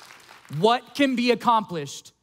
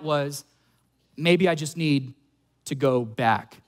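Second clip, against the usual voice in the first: discouraged doubts; 3 semitones lower than usual. Acted. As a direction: lower voice, mildly dejected churchgoer. Voicing a discouraged churchgoer's doubts.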